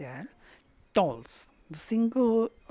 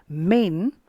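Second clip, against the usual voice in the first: "Men" punched louder; stressed syllable; 2 semitones higher, 7 dB louder than usual. Shown as a demonstration. Teacher marking the stressed word of the line, "Men" said with strong stress. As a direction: put a firm stress on "Men". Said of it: "it is stressed".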